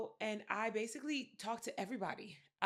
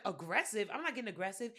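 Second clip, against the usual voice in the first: indignant retort. Retold or imitated. Acting out offended retort to accusation.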